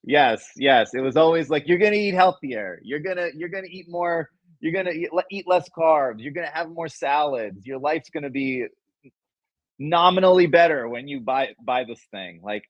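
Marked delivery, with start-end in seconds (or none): 1.7-12.4 higher-pitched mock pitchman hype; imitating Vince. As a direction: ham up the infomercial promises like Vince. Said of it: "Vince's style was".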